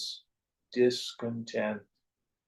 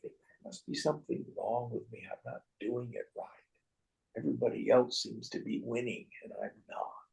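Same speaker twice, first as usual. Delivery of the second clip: softer, fast worried whisper at the end; inner worry; 3 semitones lower, 6 dB quieter, faster than usual. Retold or imitated. Private thoughts of failure, hushed worry. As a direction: whisper the self-doubt to yourself. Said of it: "We think".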